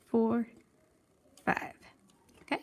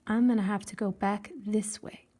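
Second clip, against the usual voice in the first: whisper. Real, not acted. Aside while weaving.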